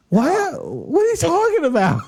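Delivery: high, laughing "what are you talking about"; laughing disbelief. Retold or imitated. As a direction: laugh through the shock. Shocked by sudden breakup.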